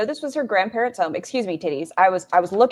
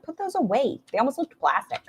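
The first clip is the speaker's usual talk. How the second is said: mock disgust; 7 semitones higher than usual. Retold reaction to seeing the moobs.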